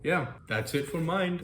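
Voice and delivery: bright, high sign-off like a TV host; game show host voice. Real, not acted. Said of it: "I sound like a game show host".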